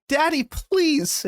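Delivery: high, slow, begging plea; pleading daughter. Retold or imitated. A daughter begs her dying father, high and slow. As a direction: draw it out like a tearful girl.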